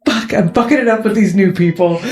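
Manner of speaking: quick, flustered muttered panic; fast and slightly frazzled; a little frazzled. Acted. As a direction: rush it out, mildly rattled. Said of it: "like, frazzled".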